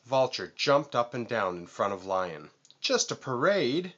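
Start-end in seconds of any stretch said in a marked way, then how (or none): 2.8-3.9 indignant yell. A narrator's reading. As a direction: fling the words back in outrage. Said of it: "he yelled".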